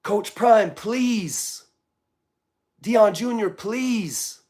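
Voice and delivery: high, pleading appeal; earnest plea. Real, not acted. Pleading with Coach Prime to speak out, high and earnest. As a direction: beg him sincerely, voice lifted.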